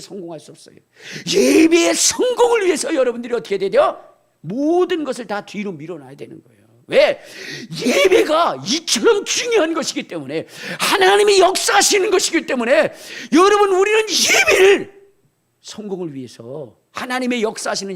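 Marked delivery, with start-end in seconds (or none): 1.3-4.0 higher, louder rallying call on 성공을; loud shout. Real, not acted. Pastor shouting 성공을 to the congregation. 7.8-15.0 higher and louder with a cracking cry; full-force preaching. Real, not acted. Pastor at full force on why worship matters. 15.6-16.8 sudden hush. Real, not acted. Pastor dropping his voice after shouting about worship.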